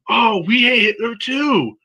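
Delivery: high, slow mock Asian accent; bad Asian accent. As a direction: chime in eagerly with a put-on Asian accent. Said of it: "I'm gonna do a bad Asian accent".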